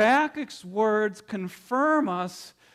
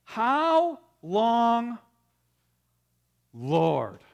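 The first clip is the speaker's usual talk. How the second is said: a louder cry of How long, rising then falling on Lord; prophet's cry; 4 semitones higher, 4 dB louder, much slower than usual. Acted. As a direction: call out like a pained prophet. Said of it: "that he says is this".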